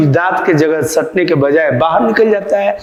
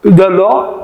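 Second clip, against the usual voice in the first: put-on toothless old man voice, slower on the opening words; toothless grandpa; slower than usual. Teacher imitating a toothless grandfather calling a child, lightly mumbled. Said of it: "वो कैसे बोलते हैं?".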